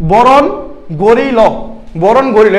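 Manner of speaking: "বরণ গরিল" in Chittagong speech, g replacing k; Chittagong dialect. Shown as a demonstration. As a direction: demonstrate Chittagong "gori lo" for "kore lo", word by word. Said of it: "Chittagong ভাষায় বলে". (চাটগাঁইয়া ভাষায় থেমে থেমে "বরণ গরিল")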